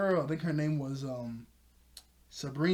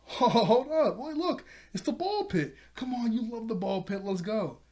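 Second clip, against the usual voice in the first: much higher and louder, bursting with glee; excited kid sister; 7 semitones higher, 4 dB louder than usual. Retold or imitated. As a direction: squeal like a kid who just spotted the ball pit. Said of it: "she goes".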